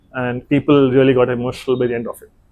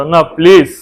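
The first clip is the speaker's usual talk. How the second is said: insistent retold plea. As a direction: press the request, imitating a friend begging. Retold repeated plea, more insistent.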